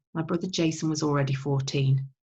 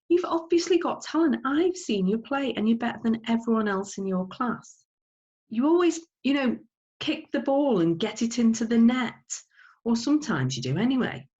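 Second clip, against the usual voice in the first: Mum insisting; 6 semitones higher than usual. Acted. Mother pressing her son to join the academy, high insistent voice. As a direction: push him like a pushy mother. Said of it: "said Mum".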